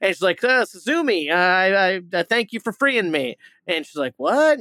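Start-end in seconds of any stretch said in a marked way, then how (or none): 0.4-3.4 talking cat. Retold or imitated. Cat speaks to the girl. 4.2-4.6 shocked what. Retold or imitated. Girl's shocked reaction to the cat.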